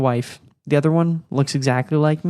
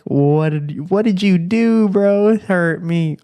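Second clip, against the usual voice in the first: higher, louder playful accusation; mock scowling wife; 4 semitones higher, 4 dB louder than usual. Wife scolds husband over twins, mock scowling outrage. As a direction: imitate her scolding him in mock outrage. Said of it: "she's just scowling at me".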